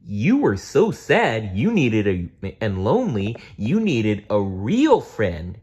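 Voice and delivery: lightly voiced dinosaur, gentle; kind Barney. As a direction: comfort a sad child.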